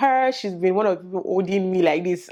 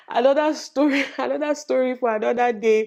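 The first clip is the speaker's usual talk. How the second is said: 1 laughing dismissal; 6 semitones higher than usual. Real, not acted. Laughs brushing off story.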